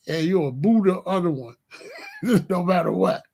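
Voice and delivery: laughing through the words; chuckling as he says it; amused giggle. Real, not acted.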